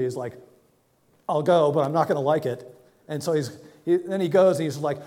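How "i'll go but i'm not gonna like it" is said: sulky reluctant yes; grudging. Retold or imitated. Jonah answering God, louder and grudging. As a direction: voice it louder, grudging and put-upon. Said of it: "And, like, grudgingly".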